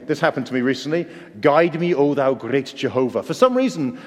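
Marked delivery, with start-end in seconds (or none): 1.4-3.2 sung hymn line in a Welsh accent. Shown as a demonstration. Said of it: "I do it in a Welsh accent".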